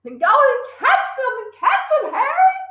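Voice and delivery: high, pushy command; urgent hiss. Acted. Mother urging her husband to catch burglars, pushy. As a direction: hiss at him to go. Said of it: "hissed the mother".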